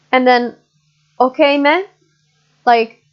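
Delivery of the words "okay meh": rising, questioning "meh" at the end; doubtful okay meh. Shown as a demonstration. Teacher showing students a doubtful Malaysian okay meh, rising. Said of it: "Are you sure that this is okay?".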